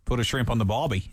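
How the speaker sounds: shaky attempt at Australian accent, a little low; badly faked Australian accent. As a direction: try a stock Australian accent. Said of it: "that's terrible".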